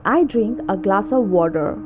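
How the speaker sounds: attempted American accent, full r ending "water"; American rhotic "water". Shown as a demonstration. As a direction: say it American-style, sounding the r in "water". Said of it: "and American accent".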